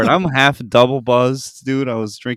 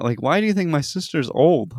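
higher-pitched puzzled retort; confused; 4 semitones higher than usual. Retold or imitated. Man questioning guest about his sister, confused. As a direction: imitate a baffled man asking back. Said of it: "he was so confused".

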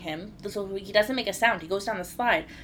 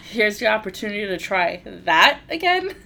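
stern warning; 3 semitones higher, 6 dB louder than usual. Retold or imitated. Stern mother to demanding son.

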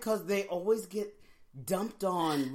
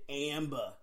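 "Amber" as r-less "Am-buh"; Boston accent; 3 semitones lower, 5 dB quieter than usual. Retold or imitated. Co-host recalling Boston Rob's wife, Boston accent. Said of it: "Remember Boston Rob on Survivor?".

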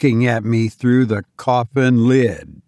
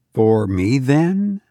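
gaily; 2 semitones higher, slower than usual. Acted. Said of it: "I demanded gaily".

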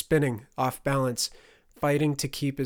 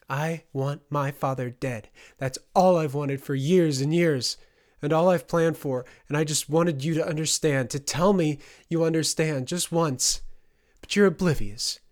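raised, louder bitter confession; long-held grievance bursting out; impassioned outburst; 4 semitones higher, 6 dB louder than usual. A narrator's reading. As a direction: plead to be understood, voice climbing. Fay pours out her grievance.

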